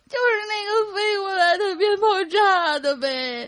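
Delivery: put-on tearful voice. Retelling answering the adults about the firecracker injury, in a crying voice. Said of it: "我就带着哭腔说".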